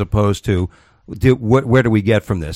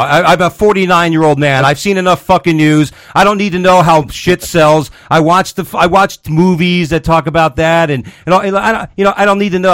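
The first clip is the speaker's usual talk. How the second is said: worked up; 3 semitones higher than usual. Real, not acted. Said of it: "Why are you so worked up?".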